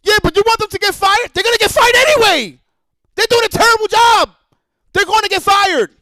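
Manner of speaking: mocking other people. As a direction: parrot the critics in a high mocking voice. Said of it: "everybody else is like".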